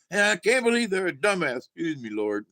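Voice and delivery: a touch of pulpit fervor; mock preacher. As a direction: preach the insult with a lift. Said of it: "he's like".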